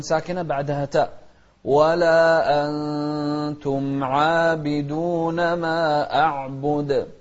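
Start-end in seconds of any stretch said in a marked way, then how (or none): 1.6-7.1 أنتم with the ن hidden in a two-beat nasal hum; nasal ikhfa. Shown as a demonstration. Teacher showing ikhfa in أنتم. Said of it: "أخفينا النون مع المقدار الحركتين".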